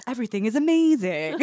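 put-on soothing calm. Shown as a demonstration. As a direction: play the reassuring host, lightly hammed up. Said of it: "trying to be like a calm voice".

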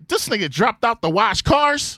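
mock outraged disbelief; incredulous dad. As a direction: spell out the absurdity slowly.

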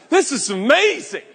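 a gleeful little man's exclamation; overjoyed. Acted. Zacchaeus overjoyed meeting Jesus.

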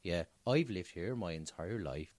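put-on low, soft Belfast accent slipping rustic; Northern Irish accent gone a bit farmer. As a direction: attempt Belfast, land on West Country. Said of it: "You sound a bit farmer now".

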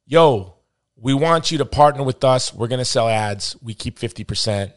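mock Boston accent. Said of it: "that's how they talk in Boston".

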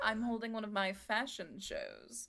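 lightly voiced fashion show host; fashion designer character. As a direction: play a busy designer handing out invitations.

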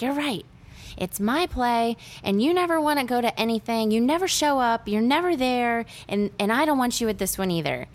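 high-pitched imitated indignant rant; acted daughter's outburst. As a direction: hurl accusations like an upset daughter, without shouting. Acted daughter lashing out at mother.

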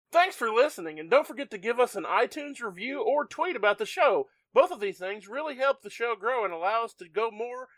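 upbeat call center script read; customer service voice. Shown as a demonstration. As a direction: read it like a phone rep. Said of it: "my customer service voice from working at call centers".

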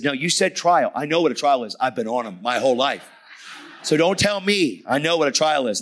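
worked-up protest, pitched high; retold freaking out. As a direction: argue back loudly, refusing to be told. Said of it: "Brother, settle down".

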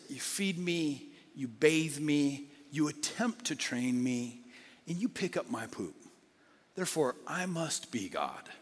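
slow, drawn-out lazy self-importance; a lightly voiced cat who thinks it is in charge; smug cat. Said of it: "Cat looks at the owner and says".

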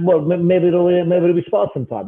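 badly faked Russian accent drifting toward Italian; worsening Russian accent. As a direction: let the fake Russian accent fall apart. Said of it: "This accent's getting a little bit worse as we go".

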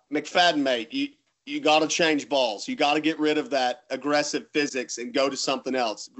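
put-on light British accent, chummy advice; a hint of a British mate giving tips. Bowler imitates a friend urging a ball change, in a light British accent. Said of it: "in his British accent".

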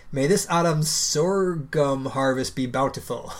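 solemn mock-official statement; north korean newsreader. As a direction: read it like state propaganda. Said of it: "It said".

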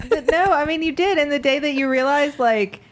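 high, laughing through the words; can barely talk for laughing; giggly. Real, not acted. Laughing hard through the story.

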